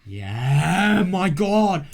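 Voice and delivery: loud, high cry of disbelief; shocked outburst. Real, not acted. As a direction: blurt it out in shock, pitch leaping up. Shocked reaction to game story.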